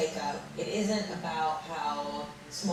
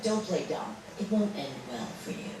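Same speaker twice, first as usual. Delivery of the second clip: villain voice. Acted. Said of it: "such a villain voice".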